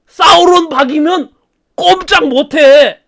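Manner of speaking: hammed-up dark lord boast; boasting villain. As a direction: gloat over the prisoner. Sauron boasts.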